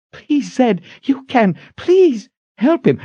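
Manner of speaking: very high, pleading voice; desperate begging. A narrator's reading. Kalen begging raging Zed to help, desperate. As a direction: beg urgently, pitched far up.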